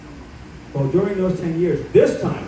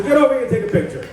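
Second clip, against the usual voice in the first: laughing insistence; 6 semitones higher, faster than usual. Retold or imitated. Marjorie invites him laughing.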